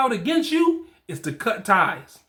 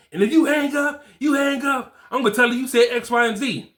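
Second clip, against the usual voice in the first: retold shouted threat; 3 semitones higher than usual. Baby mama threatens on phone.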